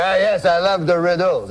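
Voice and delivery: put-on light French accent in his own register; lightly voiced French uncle; French-Canadian uncle. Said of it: "That's how he talks".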